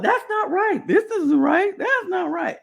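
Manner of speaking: lightly mocking nagging voice; mimicking a complaining teammate. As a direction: imitate someone fussing over every move. Imitating Stephanie changing things.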